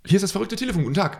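radio prankster announcing; bright prank call reveal; over the phone. Pretend.

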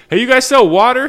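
high, loud question bursting with laughter; laughing uncontrollably. Retold or imitated. Tripping customer asks shop staff for water, high laughing shout. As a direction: re-enact cracking up while asking. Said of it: "immediately just laughing my ass off".

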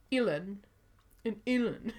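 both names as "Illen"; identical pronunciation. Shown as a demonstration. Showing two names sound the same, identical pronunciation. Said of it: "the same".

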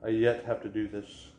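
lightly imitated Fargo-style accent; local Fargo accent. Imitating local phrasing, light Fargo accent. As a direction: put on a touch of Fargo. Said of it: "Well, they'll say".

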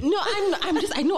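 stifled giggles. Real, not acted. Giggling while talking.

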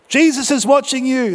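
high, booming warning. Acted. Parrot booming a warning at the burglar, high and ringing. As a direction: boom it out like a hidden voice. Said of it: "the voice boomed again".

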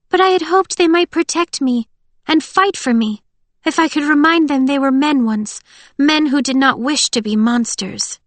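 high, earnest character voice; Winter, hopeful captive. A narrator's reading. Winter appeals to the wolf soldiers' humanity, hopeful.

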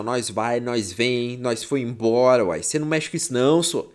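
casual rural Goiás accent. Shown as a demonstration. Teacher showing how people in Goiás speak, light Goiás accent. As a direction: lightly show off a Goiás way of talking. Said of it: "aqui no Goiás a gente fala assim".

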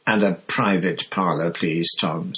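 pointed. Acted. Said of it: "said Fudge, pointedly".

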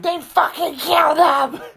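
high, hysterical impression; high mock panic. Friend acting out Chloe, high mock panic. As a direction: wail it like a scared girl. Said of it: "she's like".

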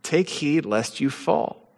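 hushed reread of the verse; quiet repetition. Acted. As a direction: let the warning sink in softly. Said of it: "First Corinthians".

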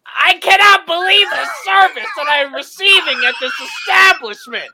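high, loud, hammed-up tirade at the taco staff; mock outraged customer rant. Friend imagining the tantrum at Del Taco, high mock fury. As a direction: rant like a furious customer demanding a manager. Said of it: "So were you just like".

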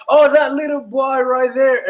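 put-on high, drawn-out Panamanian accent; slow singsong Panamanian imitation; imitated Panamanian English. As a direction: mimic relatives' Panamanian lilt. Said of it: "speaking just like that".

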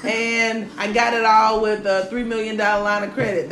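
imitating him, loud and laughing; a touch of the smug guy's voice; mock pompous reply. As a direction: puff up like a bragging man. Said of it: "Let me tell you how he responded".

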